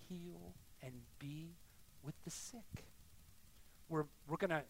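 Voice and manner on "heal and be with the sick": very soft, low and halting; hushed solemn charge. Real, not acted. Preacher telling the church its job, hushed and solemn. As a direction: drop right down, leaving space between words.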